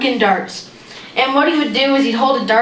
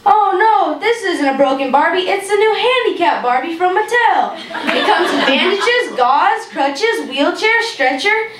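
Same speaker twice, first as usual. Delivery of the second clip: lightly hammed-up toy commercial, rising to a high sung finish; mock sales pitch; 5 semitones higher than usual. Teasing sister with a fake toy ad, mock pitch. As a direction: sell it like a cheesy ad.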